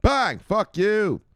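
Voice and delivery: loud, high mock shout; triumphant kiss-off. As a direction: throw it in the boss's face. Acts out telling boss off.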